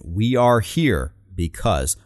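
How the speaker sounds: slow, measured We are here because; drawn out, deliberate; slow repetition. Shown as a demonstration. Echoing the speaker's repeated rally line, slow. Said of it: "we hear this repetition".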